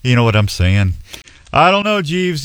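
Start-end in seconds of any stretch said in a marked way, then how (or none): 0.0-0.9 put-on English valet accent that keeps slipping; badly faked English accent; a loose attempt at an English accent; shaky English accent. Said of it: "You sound a little cagey on that".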